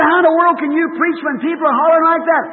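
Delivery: a touch of mock exasperation; complaining churchgoer. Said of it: "there was a man that's a Sunday school teacher".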